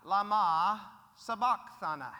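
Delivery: slow, loud imitated cry; mild retold scream. Preacher finishing what Jesus screams, mild imitated scream. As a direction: draw the words out loudly, as a quoted scream. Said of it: "What is it that Jesus screams?".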